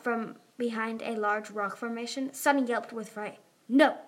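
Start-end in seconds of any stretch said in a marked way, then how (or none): 3.7-4.0 short, loud call. A narrator's reading. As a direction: call it across to a fellow player. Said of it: "Tsunami called".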